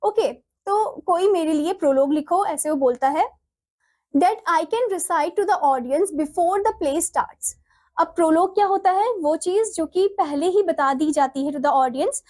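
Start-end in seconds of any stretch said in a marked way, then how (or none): 4.1-7.5 slow, deliberate textbook read-aloud; measured classroom reading. Acted. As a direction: read the script out slowly, word by word. Reads play lines aloud.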